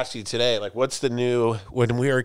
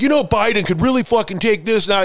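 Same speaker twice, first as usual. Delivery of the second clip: put-on old man voice; 7 semitones higher, 4 dB louder than usual. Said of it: "I'm like".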